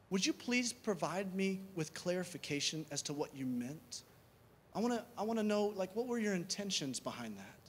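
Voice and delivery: soft, tentative request for clarification; humble. Acted. Speaker asking the other person what they meant, soft and humble. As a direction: ask gently, without accusing. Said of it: "when you come with that kind of humility".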